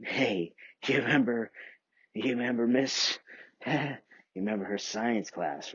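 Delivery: a loud, hammed-up schoolteacher addressing kids; loud teacher. Teacher Miss McNally telling the class she'll say bad words, loud and mock-stern. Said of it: "She said".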